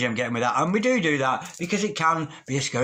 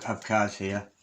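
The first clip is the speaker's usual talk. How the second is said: ordinary talk, nothing marked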